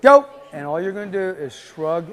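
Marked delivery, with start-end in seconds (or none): 0.0-0.2 raised, higher demo command; previewed go cue. Shown as a demonstration. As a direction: call it out as a starting cue. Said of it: "this time I'm gonna say".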